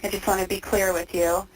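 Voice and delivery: tinny phone-line voices; payphone call. Real, not acted. Recorded phone interview with inmate.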